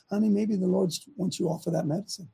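soft, sweet imitation of wife, "Honey" lifted; sweetly quoting wife. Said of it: "my wife just so sweetly said".

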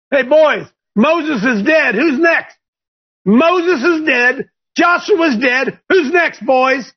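put-on high, slow, swaggering voice of God calling out to the boys; the Lord taunting. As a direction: play God as a cocky ringleader, drawn out and high. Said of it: "the Lord spoke unto Joshua, saying".

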